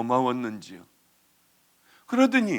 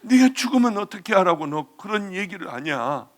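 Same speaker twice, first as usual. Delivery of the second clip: retold scolding; 3 semitones higher, 4 dB louder than usual. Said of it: "야단치고 닥달을 했어요".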